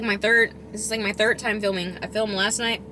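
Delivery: usual speaking voice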